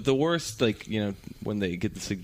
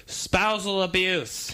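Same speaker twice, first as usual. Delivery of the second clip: very slow, higher, flat answer; grim deadpan; 8 semitones higher, much slower than usual. Retold or imitated. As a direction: say it slowly and bluntly. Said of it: "She's like".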